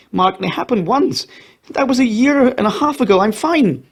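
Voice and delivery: high, tearful begging; tearful pleading. A narrator's reading. Bronwyn begging Mark not to send her away, tearful pleading. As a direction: plead through tears, voice pitched high. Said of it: "The tears poured down Bronwyn's face".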